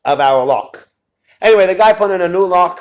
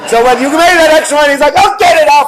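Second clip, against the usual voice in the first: emphatic pessimist; 9 semitones higher, 7 dB louder than usual. Retold or imitated. Pessimist quoting God's plan.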